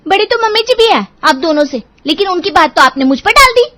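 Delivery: high, loud protesting voice; indignant defence. Acted. Seema defending herself to mother-in-law, high indignant protest. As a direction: stand your ground, voice climbing.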